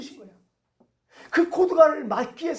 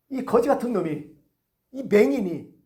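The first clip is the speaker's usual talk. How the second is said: scolding; 3 semitones higher, 4 dB louder than usual. Acted. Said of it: "꾸짖는 거예요".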